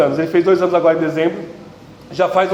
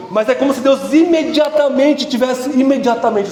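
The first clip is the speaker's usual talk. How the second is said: preaching burst; 4 semitones higher than usual. Real, not acted. Preaching climax, sudden emphasis.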